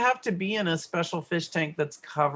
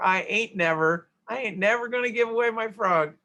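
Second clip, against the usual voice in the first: bumpkin talk; 5 semitones higher than usual. Shown as a demonstration. Teacher mocking bad grammar, hammed-up bumpkin voice. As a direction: ham up a country bumpkin. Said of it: "sound like a bumpkin saying it like this".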